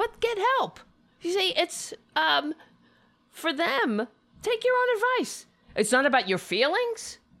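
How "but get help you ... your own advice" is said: high-pitched, fed-up, exasperated shout. Ranting at a clip of another speaker, yelling. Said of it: "I don't mean to yell".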